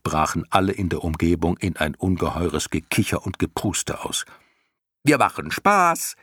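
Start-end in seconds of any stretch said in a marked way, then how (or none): 5.0-6.2 high, drawn-out squeaky call; clown moth calling down. A narrator's reading. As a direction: crow it down gleefully, slow and high. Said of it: "rief die erste Motte zu Bastian hinunter". (vergnügt hinuntergerufen, hoch und gedehnt)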